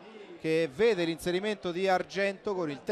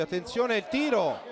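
excited call; 5 semitones higher, 3 dB louder than usual. Real, not acted. Chance in live commentary.

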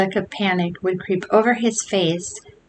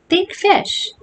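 urging; 11 semitones higher than usual. Acted. Tom urging Billy.

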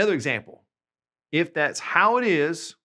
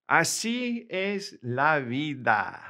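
slow clear model; 2 semitones higher, slower than usual. Shown as a demonstration. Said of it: "teacher models phrase slowly".

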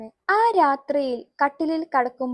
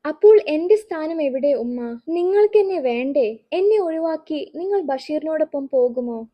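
pained cry; 3 semitones higher, 3 dB louder than usual. Acted. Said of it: "ഒരു മകന്റെ വേദനയായിരുന്നു".

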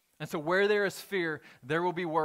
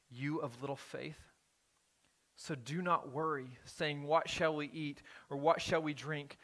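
slow scripture reading; 2 semitones lower than usual. Acted. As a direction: read each line slowly, letting it land. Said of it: "I'm gonna read this passage rather slowly".

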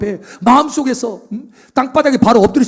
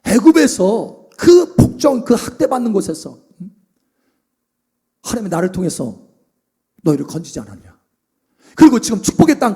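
mock angry Moses. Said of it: "모세가 화가 확 나가지고".

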